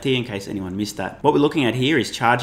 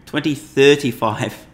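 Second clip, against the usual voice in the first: incredulous; 3 semitones higher, 4 dB louder, slower than usual. Real, not acted. Scoffs at GM's 2035 target.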